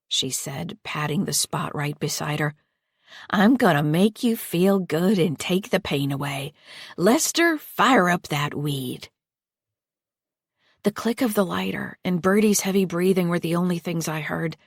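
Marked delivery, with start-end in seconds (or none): 3.3-9.1 slow, sugary false comfort; slow creepy coaxing. Acted. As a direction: drawl it out sweetly. Patty voiced in story.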